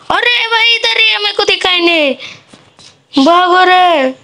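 high, slow startled alarm; sudden fright, then urge to run; high alarmed warning. Real, not acted. Enemy near, can't see it.

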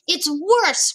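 high-pitched emphatic retort; agitated storybook giant; alarmed cry. A narrator's reading. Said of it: "cried the B F G".

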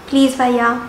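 South Delhi girl accent, lightly put on. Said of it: "really sorry for that accent".

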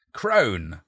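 roared. Acted. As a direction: roar the word at the old woman. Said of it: "roared the charlatan".

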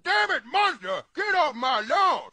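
mock angry yell; angry at monster. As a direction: run the monster off the lawn. Yelling at monster on lawn.

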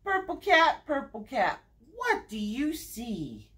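sing-song read-aloud, each repeated name stepping down; story time refrain with falling line ends; picture-book reading. Acted. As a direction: read to little ones with lilting, measured phrasing. Reads picture book to children.

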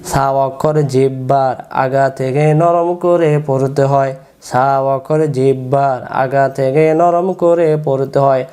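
slow, measured rule recital with stretched syllables; memorisation recitation. Shown as a demonstration. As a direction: recite it slowly so pupils can memorise it. (ধীরে টেনে টেনে মুখস্থ পড়ানো)

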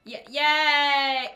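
loud, drawn-out cheerleader praise; mock cheering. Cheering on the villager to make him blush, loud and slow. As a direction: cheer him on like a proud coach.

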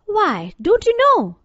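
high, loud astonished question; surprised. A narrator's reading. Girl astonished at the scarecrow's question, in surprise. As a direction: jump up in pitch with surprise. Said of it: "she asked in surprise".

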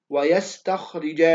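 "ويستخرج" said slowly, the "خ" thick and full; heavy KHA. Shown as a demonstration. Teacher repeats the example for students, "ويستخرج" slow with heavy "خ". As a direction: linger through "ويستخرج" with a full-mouthed "خ". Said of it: "حرف الخاء حرف تفخيم".

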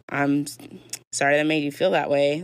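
insincere sorry, lifting on FEEL; backhanded apology. Shown as a demonstration. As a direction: make the apology sound backhanded by inflection. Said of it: "inflection also matters, guys. Versus".

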